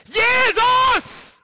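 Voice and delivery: high, loud desperate shout. Retold or imitated. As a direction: cry out with everything you have. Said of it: "schreit er".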